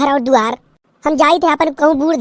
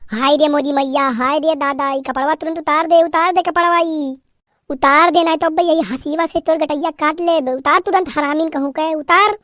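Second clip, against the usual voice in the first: wailing that turns into angry orders; furious village mother-in-law; scolding mother-in-law. Acted. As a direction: demand she take it off now.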